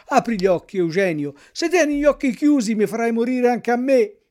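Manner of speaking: loud, tearful calling to a hurt friend; desperate weeping plea. A narrator's reading. Puppet calling his fallen schoolmate, loud and tearful. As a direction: beg him to open his eyes, crying out. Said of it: "piangendo dirottamente e disperandosi".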